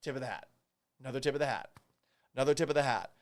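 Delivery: quiet, mock solemn hat tips; soft mock tribute. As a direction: tip the hat softly, mock respect. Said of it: "here's a hat".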